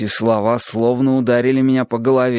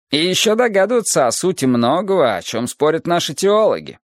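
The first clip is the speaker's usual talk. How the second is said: lightly voiced philosophical teacher, raised pitch; Adonis expounding; 5 semitones higher than usual. Adonis expounds the emptiness of the world, lifted lecturing voice. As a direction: expound it as a patient sage, slightly lifted.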